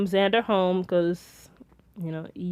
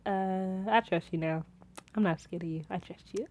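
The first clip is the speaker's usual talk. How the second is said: sea lion voice; 2 semitones lower, 12 dB quieter than usual. Pretend. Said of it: "sea lion just chilling like".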